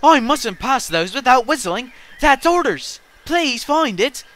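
high, loud dismayed plea; protesting. A narrator's reading. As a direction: plead urgently, slowing on the last request. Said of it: "he protested".

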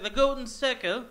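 light mock-British accent, non-rhotic. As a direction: imitate a British pronunciation of a film title. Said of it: "The way they kept saying like that".

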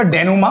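डेनुमा with no final t, ending on an open "maa"; correct pronunciation. Shown as a demonstration. Teacher shows students how the term is pronounced, डेनुमा ending in open "maa". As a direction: say डेनुमा the French way, t left silent. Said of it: "इसका pronunciation होगा".

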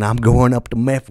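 slight Southern twang, a bit loud; accidental Southern accent. Real, not acted. Comic announces tour stop, accidental Southern twang. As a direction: let a Southern lilt slip in. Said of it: "why do I sound southern".

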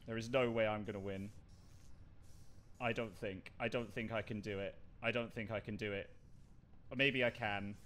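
low, soft self-talk; muttering to oneself. Real, not acted. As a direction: think aloud under the breath, low and hushed. Mutters to herself alone while playing.

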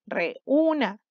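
REÚNA split with a break, re, úna; teacher sounding out REÚNA in separate pieces; separated syllables. Shown as a demonstration. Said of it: "Tres sílabas".

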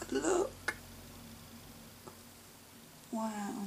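a high little whispered look; excited whisper. Real, not acted. Spotting another gift, high excited whisper. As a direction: whisper it to share a find. Admiring gifts, hushed.

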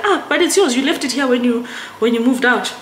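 mildly insist, as if pointing out the obvious; imitated protest. Sister reminding her whose wine it is, imitated protest.

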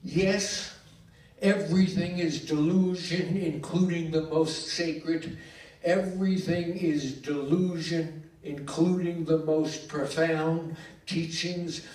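emphatic, incantatory poetry reading; poem recital. Acted. Poet reading a tribute poem for Bernard, declaimed. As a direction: declaim it in measured phrases, leaning on key words.

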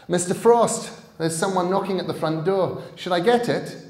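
put-on girl calling up to Mister Frost; girl calling upstairs. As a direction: call up the stairs as the girl. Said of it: "A voice called up to them".

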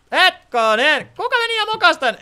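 high, loud shocked "Hetkonen"; outraged shriek. Real, not acted. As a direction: cry out at the ruined spot. Discovering damage, outraged. (järkyttynyt kiljaisu)

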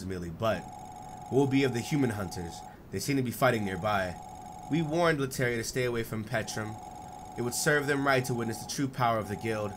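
a hint of measured, cold characters; lightly voiced calm characters. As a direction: read the guild pair evenly and coolly. Voicing Emily and Vados dialogue.

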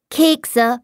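put-on high child's voice, falling demand; a small boy announcing what he wants; boy demanding cookies in a child's voice; little boy. A narrator's reading.

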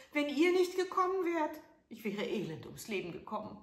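put-on high, loud frail old crone; old woman. A narrator's reading. Old woman tells the prince how she fell, high and pitiful. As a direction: tell your woe like a pitiful old herb woman. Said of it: "sprach sie".

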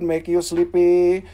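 mock hypnotist.

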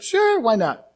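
lifted, sing-song consent; breezy agreement. Retold or imitated. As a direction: imitate a gullible, careless yes. Church's easy agreement, acted.

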